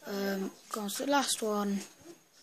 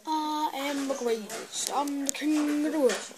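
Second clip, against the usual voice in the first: boastful king; 4 semitones higher than usual. Pretend. Boasting in a funny effect.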